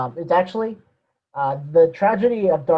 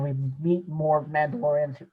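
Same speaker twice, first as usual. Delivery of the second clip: voice crack; 5 dB quieter than usual. Real, not acted. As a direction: voice cracking mid-sentence. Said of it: "voice crack".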